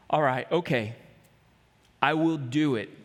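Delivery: low, hesitant "I will do it"; a hint of scared reluctance; reluctant agreement. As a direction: agree nervously, dragging your feet. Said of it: "Trepidation, scared".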